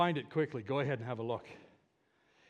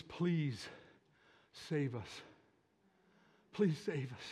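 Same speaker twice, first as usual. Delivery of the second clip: low, soft pleading with pauses; soft plea; 5 semitones lower, 7 dB quieter, slower than usual. Acted. Preacher explaining what the crowd's word means, softly pleading. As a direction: bring it down to a quiet entreaty.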